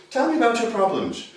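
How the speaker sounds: a lightly voiced formal therapist, face to face; a hint of a detached clinician asking from across the room; stiff therapist. Shown as a demonstration. Therapist questioning a client face to face, lightly voiced formal tone. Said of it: "classical therapy is like this".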